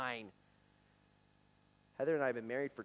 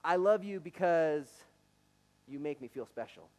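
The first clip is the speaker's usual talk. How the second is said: sample declaration; 3 semitones higher, 8 dB louder than usual. Shown as a demonstration. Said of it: "fill in the blank".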